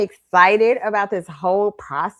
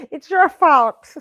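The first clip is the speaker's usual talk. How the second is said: slow, louder playful accusation; mock blame; 8 semitones higher, 8 dB louder, slower than usual. Blaming granny for never teaching her to swim, slow mock accusation. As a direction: drag it out, teasing blame.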